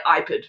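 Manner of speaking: "iPad" with a weakened, altered second vowel; character's pronunciation. Shown as a demonstration. Host joking about the device with the notes, quirky "iPad". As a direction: say "iPad" in the movie pharaoh's odd way. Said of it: "because of the way he says".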